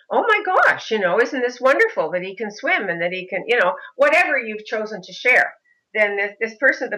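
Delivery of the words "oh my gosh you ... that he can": imitating delighted amazement, starting high; amazed stranger. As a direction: gush like an onlooker who is won over. Voicing a stranger won over.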